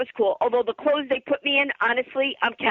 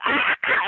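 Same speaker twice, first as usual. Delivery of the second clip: short imitated screams, a bit higher; mock scream; 5 semitones higher than usual. Hairdresser screaming at a bug, imitated short screams. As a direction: act out his startled screaming. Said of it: "he started screaming".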